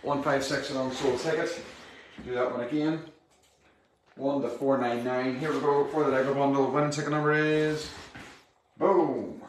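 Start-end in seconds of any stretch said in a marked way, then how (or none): 4.2-7.9 upbeat raffle draw call; raffle caller. Acted. 8.8-9.4 loud punchy boom; boom reveal. Acted. Winning number reveal.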